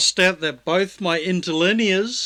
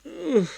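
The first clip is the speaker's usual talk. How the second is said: short high "ugh"; brief high-pitched groan of effort; frustrated groan; 12 semitones higher than usual. Real, not acted. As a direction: groan at not being able to see it. Straining to read small print.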